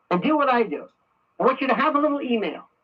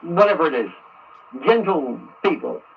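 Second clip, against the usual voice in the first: dictating an angry letter. Shown as a demonstration. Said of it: "you write something like this".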